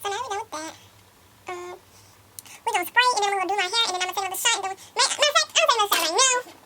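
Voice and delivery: high, fast, giggly tipsy chatter. Real, not acted. High giggly voice, laugh heard.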